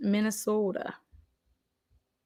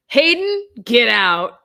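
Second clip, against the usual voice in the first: playful disbelief; 4 semitones higher, 6 dB louder, much slower than usual. Real, not acted. Teasing a known viewer.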